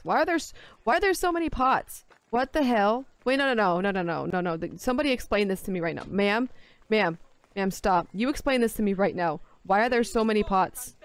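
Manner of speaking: loud, incredulous rant; ranting at the villagers about the pots; exasperated outrage. Real, not acted. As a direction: demand answers about the pots.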